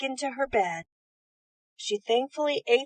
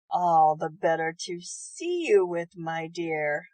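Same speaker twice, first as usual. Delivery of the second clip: grinning wolf; 5 semitones lower, slower than usual. Acted. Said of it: "grinned the wolf".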